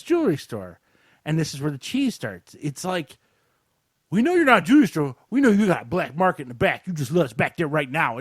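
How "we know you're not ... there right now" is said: lightly hammed-up robber talk; cheesy movie crook. Two robbers demand a jewelry store's back room, cheesy movie-crook voice. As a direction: imitate a corny film thief. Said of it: "this is how I'm talking, is how they were talking".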